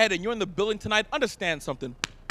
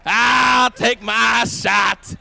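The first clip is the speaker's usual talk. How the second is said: slower taunt; mock challenge; 2 semitones lower, much slower than usual. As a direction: drag each word out as a dare.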